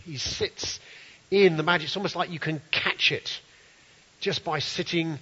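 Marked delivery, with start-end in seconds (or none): 0.0-0.8 breathy whisper of reverence; whispered awe. Real, not acted. Preacher hushing the congregation, whispered. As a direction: hush it like a secret.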